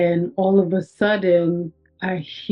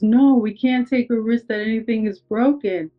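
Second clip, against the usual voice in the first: imitated paramedic insistence; 4 semitones higher than usual. Retold paramedic insisting to patient.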